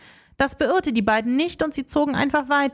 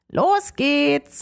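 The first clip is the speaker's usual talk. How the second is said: glad; 2 semitones higher than usual. Acted. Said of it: "sagte Rumpel erfreut".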